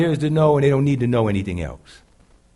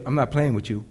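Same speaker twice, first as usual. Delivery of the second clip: low-key, softer firm warning; meaning it; 3 semitones lower, 5 dB quieter than usual. Acted. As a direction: say it quietly, no show needed. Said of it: "If you mean it, you say".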